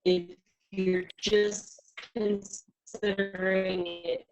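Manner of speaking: choppy broken internet voice; robotic glitchy connection; glitchy robotic audio. Real, not acted. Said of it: "You sound like a drunk robot".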